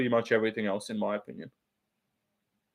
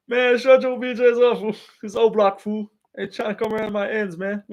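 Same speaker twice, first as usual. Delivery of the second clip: high, put-on African American accent; African American accent impression; 7 semitones higher than usual. Streamer taking a chat request, high mock African American accent. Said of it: "do the average African American impression".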